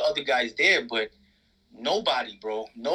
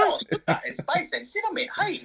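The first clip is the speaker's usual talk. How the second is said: mock sweet voice. Mocking the donut recipe promo.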